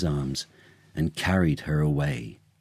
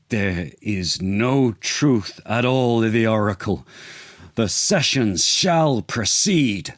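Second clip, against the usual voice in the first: stern order; 4 semitones higher than usual. Acted. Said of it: "he ordered".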